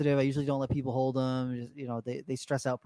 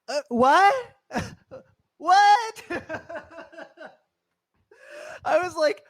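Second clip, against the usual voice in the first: high, loud incredulous "what", laughing between; baffled, can't believe what he just asked; stunned disbelief; 14 semitones higher, 5 dB louder, much slower than usual. Retold or imitated.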